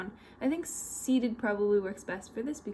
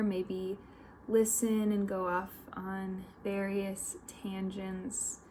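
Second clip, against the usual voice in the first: guided meditation; 5 dB quieter than usual. Real, not acted. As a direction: lead them gently, with long pauses between instructions.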